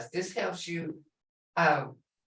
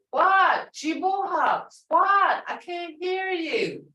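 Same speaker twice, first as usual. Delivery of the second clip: mock deaf teacher; 7 semitones higher, slower than usual. Shown as a demonstration. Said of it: "teacher coaxing class loudly".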